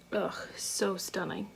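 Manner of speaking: breathy awed whisper, slowed down. Real, not acted. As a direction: whisper it as if in awe. Admiring eyeshadow on camera.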